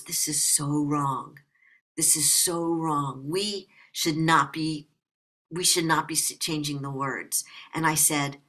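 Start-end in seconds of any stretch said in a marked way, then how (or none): 0.0-1.4 slow, tearful imitation of a distraught friend; retold crying. Bandmate in tears before the censored song, slow tearful plea. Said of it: "really crying". 2.0-7.4 retold crying. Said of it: "really crying".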